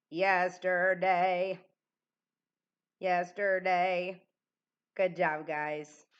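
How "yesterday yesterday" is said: mechanical, evenly spaced, flat monotone robot voice. A teacher leading kids in saying a tricky word like a robot. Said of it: "Another robot one".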